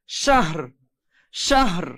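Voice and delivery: শাহর with the closing R clearly pronounced; final R sounded. Shown as a demonstration. Teacher shows learners the stopped reading, final R sounded. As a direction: end শাহর on an audible R, no vowel after. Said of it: "শেষে রটা উচ্চারণ করতে হবে".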